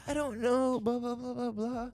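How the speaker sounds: high, flustered mock voice of the other driver; imitating the lady. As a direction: squeak it out like the shaken lady. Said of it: "She's like".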